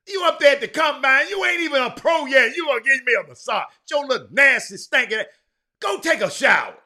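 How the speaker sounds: loud, high, scornful tirade at a rookie; indignant scolding. Real, not acted. Host scolding a rookie who wants a massage, loud indignant. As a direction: tear into him.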